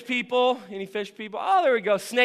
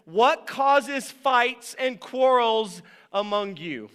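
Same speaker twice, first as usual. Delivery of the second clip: slow, weighty scripture question; slow reading; 2 semitones higher, much slower than usual. Shown as a demonstration. Preacher reading the verse to the church, slowly. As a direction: let each word land slowly. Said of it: "It's a question".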